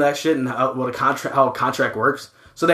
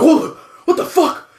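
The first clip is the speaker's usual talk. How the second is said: high-pitched startled yelp; mock scared; 13 semitones higher, 4 dB louder, slower than usual. Islanders seeing the preacher arrive, mock scared. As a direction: jump back in comic alarm. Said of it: "they scared".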